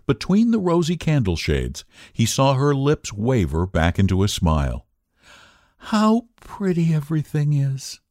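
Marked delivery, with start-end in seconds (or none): 5.8-8.0 a higher, sighing murmur of delight; sighed luxuriously. A narrator's reading. Wife at the dinner table, luxurious sigh. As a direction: sigh it out with pleasure. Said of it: "she sighed luxuriously".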